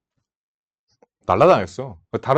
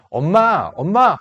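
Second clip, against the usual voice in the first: put-on higher-pitched kid calling out; 엄마 부르는 아이; 6 semitones higher, 4 dB louder, slower than usual. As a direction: imitate little boys calling for mom. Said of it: "하면서 오는 애가 남자애가 넷이야". (엄마를 부르는 아이 흉내)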